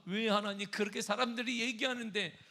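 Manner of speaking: high, loud outcry at God; angry protest. Acted. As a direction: demand answers, hammering the "why". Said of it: "다윗은 지금 분노하고".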